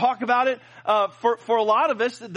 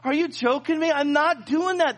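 incredulous; 6 semitones higher than usual. Retold or imitated. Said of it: "I was literally just like".

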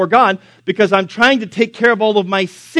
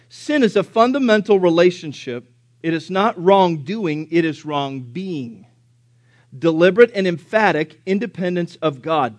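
slow reading. Shown as a demonstration. Preacher reading Oswald Chambers to congregation, slow reading. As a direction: let each phrase sink in slowly. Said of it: "I'm gonna read it slow".

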